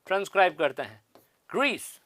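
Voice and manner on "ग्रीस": ग्रीस said alone, softer, on a hard "g"; pronunciation demo. Shown as a demonstration. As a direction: model ग्रीस as "grees" with a plosive ग at the start. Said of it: "इस तरह से".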